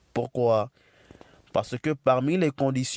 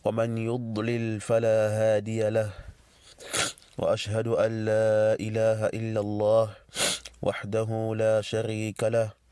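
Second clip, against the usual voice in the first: measured Arabic recitation on a level pitch; formal opening invocation; faster than usual. Real, not acted. Teacher opening the lesson with praise of Allah, formal recitation. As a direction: intone it evenly, phrase by phrase.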